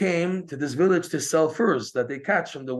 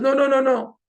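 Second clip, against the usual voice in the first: emphatic no; 12 semitones higher, 8 dB louder than usual. Acted. Rebbe reassures worried Rav Chaiko.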